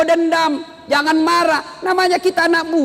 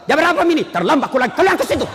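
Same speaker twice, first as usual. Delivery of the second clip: mock harsh scolding; 3 semitones higher, much faster than usual. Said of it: "Coba kalau".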